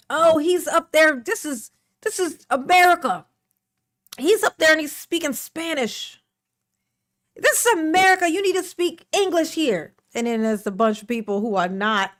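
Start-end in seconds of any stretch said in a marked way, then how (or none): 0.1-9.9 mock angry complainer. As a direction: sneer it like an offended complainer.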